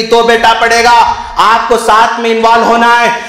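impassioned preaching. Acted. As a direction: preach it forcefully to the congregation. Preaches at full force. (जोशीला उपदेश)

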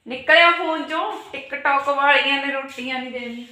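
playful wife scolding her husband about TikTok; teasing scold. Acted. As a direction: tease him for sitting on his phone. Teasing husband about his phone.

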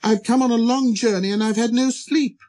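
high, apologetic small voice; embarrassed little prince. Acted. Prince excusing his yawn to the king, high and embarrassed. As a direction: plead helplessly in a light, high voice. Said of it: "thoroughly embarrassed".

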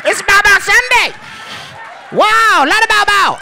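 very high, excited mock Asian dealer accent; hammed-up Asian dealer, squealed high; happy Asian dealer. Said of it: "I perfected that voice".

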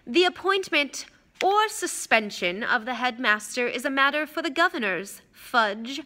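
smoothly superior official tone; Malfoy, smooth. Acted. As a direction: put him in his place silkily. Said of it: "said Mister Malfoy smoothly".

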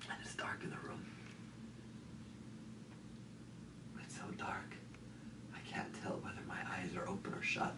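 soft near-whisper, halting between phrases; hushed dread. Acted. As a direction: speak softly as if in the dark. Alone in the dark room.

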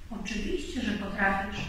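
softly encouraging, with a smile; said smiling. A narrator's reading. Kangaroo encourages a doubtful Rabbit, smiling softly. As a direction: reassure quietly through a smile. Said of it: "powiedziała z uśmiechem Kangurzyca".

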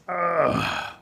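breath-out groan of a hurt alligator; pained groan. Acted. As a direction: groan over a sore tail. Alligator groans over sore tail.

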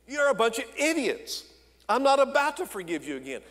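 rising, heated scolding; mock exasperated Joseph. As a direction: tell off the knuckleheads, half joking. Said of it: "Joseph could have easily said".

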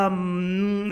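long, drawn-out hesitant um; stall, unsure what to answer. Retold or imitated. Nervous tourist offered a sample, hesitant. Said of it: "I'm very hesitant".

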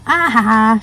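bright delighted laugh. Real, not acted. Opening her friend's stickers, laughing with delight. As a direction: laugh out loud with joy.

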